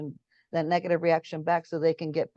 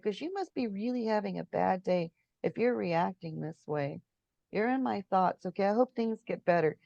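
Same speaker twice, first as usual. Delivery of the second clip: calm and kind; 3 dB quieter than usual. Retold or imitated. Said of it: "I'm gonna calmly take this".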